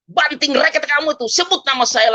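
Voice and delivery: high-pitched urgent command, imitating a cry; retold divine shout. God crying out a command to the speaker, imitated high-pitched shout. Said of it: "Bapak Yahweh teriak".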